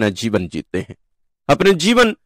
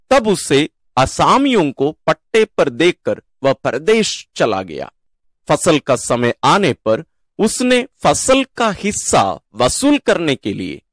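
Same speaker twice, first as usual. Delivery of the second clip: deliberate, lilting Gospel reading; scripture reading. Real, not acted. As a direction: proclaim the parable phrase by phrase. Reads the Gospel parable aloud.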